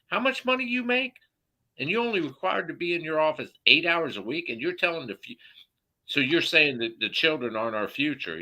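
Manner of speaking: high-pitched, fast grilling; heated challenge. Retold or imitated. Confronting the mayor about his pay, high and heated. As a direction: fire the questions up high and fast. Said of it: "I'm like".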